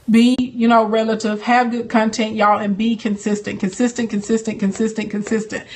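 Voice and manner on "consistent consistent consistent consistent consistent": each consistent quieter than the last, trailing off; fading repetition. Real, not acted. To her live viewers, repeating consistent as it fades away. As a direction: let the repeated word fade out softly.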